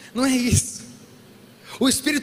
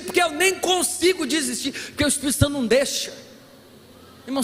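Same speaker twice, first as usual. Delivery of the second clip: normal talking voice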